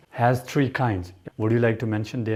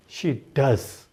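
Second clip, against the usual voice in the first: emphatic "does" after a light "She"; stress on "does". Shown as a demonstration. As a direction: land firmly on "does". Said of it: "does has made the statement stronger".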